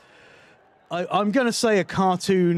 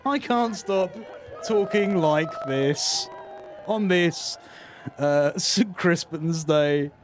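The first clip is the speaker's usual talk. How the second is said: measured TV-presenter delivery; presenting to camera, phrase by phrase; television presenter cadence. Real, not acted. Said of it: "I seem to have developed the cadence of a television presenter".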